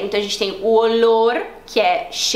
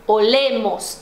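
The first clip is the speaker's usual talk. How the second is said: slow "olemos", weight on "le"; "olemos" with a strong, drawn-out "le"; stress on LE; slower than usual. Shown as a demonstration. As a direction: stress the middle syllable of "olemos". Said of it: "é no le".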